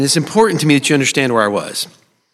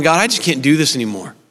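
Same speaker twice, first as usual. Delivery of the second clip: desperate prayer; slower than usual. Retold or imitated. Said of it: "crying out to God and going".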